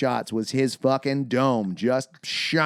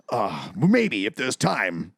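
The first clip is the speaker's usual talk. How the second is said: slow hesitant; 5 semitones lower, much slower than usual. Retold or imitated. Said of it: "Merrick goes".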